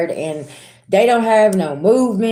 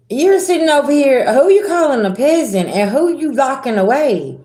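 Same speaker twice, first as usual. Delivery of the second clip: mock indignant comeback; 7 semitones higher than usual. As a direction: push back in disbelief at being called a peasant. Mocking reply to domineering person.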